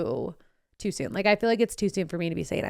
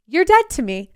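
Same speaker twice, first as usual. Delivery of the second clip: mock disowning; 6 semitones higher, 6 dB louder than usual. Acted joking confrontation of acquaintance.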